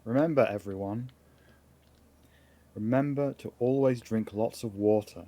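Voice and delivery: dying voice. Pretend. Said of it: "Would you like to make a dying sound?".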